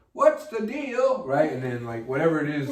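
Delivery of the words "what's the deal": high, slow drawn-out question; slow pundit voice. Retold or imitated. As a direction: stretch it out like a TV pundit. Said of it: "he'd be like".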